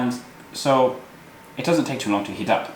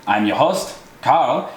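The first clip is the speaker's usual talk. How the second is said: hammy fake German accent; overdone German accent; terrible German accent. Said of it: "talking in a terrible German accent".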